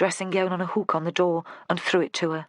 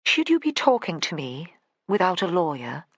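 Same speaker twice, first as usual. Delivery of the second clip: imperious. Acted. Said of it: "Joanna at her most imperious".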